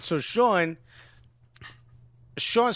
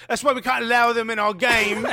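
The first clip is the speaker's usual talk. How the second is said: higher-pitched mock outrage; mock indignation; 5 semitones higher, 4 dB louder than usual. Host mimicking prejudiced fans, mock indignant. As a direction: put on an indignant objector. Mocking bigoted men's reaction.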